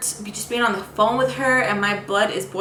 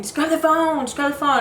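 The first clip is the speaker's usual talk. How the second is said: imitating grandma; 6 semitones higher than usual. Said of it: "I can hear my grandma saying".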